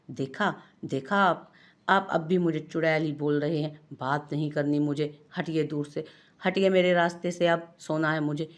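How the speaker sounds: mildly acted indignant wife rising to a loud "hatiye"; annoyed wife. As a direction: push him away, sulking and cross. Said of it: "खफगी से कहती".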